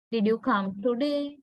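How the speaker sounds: TODAY said as too-day with a full "oo"; fully pronounced vowels. Shown as a demonstration. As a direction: give TODAY a full first vowel and a plain long "a". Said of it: "Like that".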